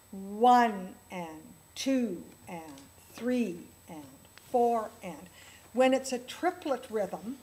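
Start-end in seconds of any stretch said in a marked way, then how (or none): 0.1-5.2 slow counting. Shown as a demonstration. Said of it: "the accent will come on the same hand every time".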